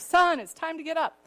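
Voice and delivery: a hint of a firm dad at the door; father calling son to get up, a touch firm; father waking son. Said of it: "He goes".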